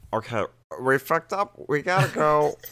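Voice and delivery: high, loud panicked blurt; high frantic getaway line; panicked character voice. Acted. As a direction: shout it in a panic while fleeing. Bay's panicked words through door slot.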